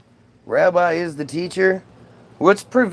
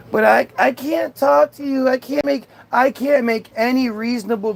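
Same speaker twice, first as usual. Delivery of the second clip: higher-pitched mock pleading; mock begging; 4 semitones higher than usual. Streamer voices heckler's excuse for not using chat, mock begging. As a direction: imitate a helpless beggar, lightly overdone. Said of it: "begging the Goyim to talk to you".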